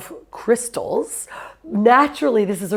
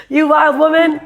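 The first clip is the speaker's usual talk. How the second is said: high, loud, gushing greeting; excited welcome; 8 semitones higher, 5 dB louder than usual. Real, not acted. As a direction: call her out with delight. Host greets guest.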